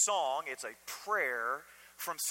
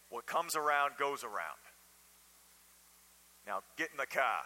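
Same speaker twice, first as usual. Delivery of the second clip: put-on heavy New England accent, laid on thick; 3 semitones lower than usual. Quoting the speaker's father's favourite saying, in a thick new england accent. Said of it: "in his thick New England accent is he'd say".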